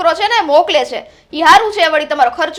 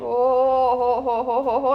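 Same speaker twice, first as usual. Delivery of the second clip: mocking oho; 3 semitones lower, 3 dB quieter, much slower than usual. Mocking his remark.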